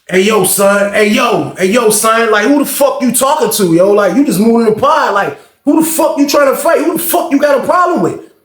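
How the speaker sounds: imitated New York street talk, building to a challenge; mock New York tough guy squaring up; New York accent. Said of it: "a lot of them talk like they from New York".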